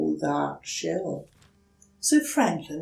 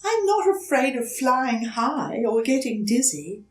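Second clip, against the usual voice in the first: put-on high, hesitant small-child voice; young turtle politely asking a stranger for help; timid little turtle; 7 semitones higher, 5 dB louder than usual. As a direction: ask shyly, a little scared. Franklin replies.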